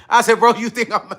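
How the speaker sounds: retold laughing disbelief; breaking into laughter mid-question. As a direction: try to say it through a laugh. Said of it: "and I laugh".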